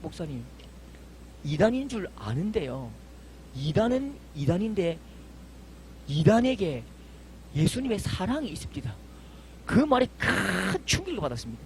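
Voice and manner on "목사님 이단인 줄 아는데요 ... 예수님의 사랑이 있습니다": quiet sincere reply. Retold or imitated. Deacon's quiet heartfelt reply.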